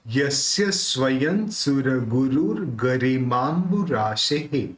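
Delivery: slow syllable-by-syllable Sanskrit recital; slow careful recitation. Shown as a demonstration. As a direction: recite each syllable clearly for learners. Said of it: "ये अलग से बोलना चाहिए".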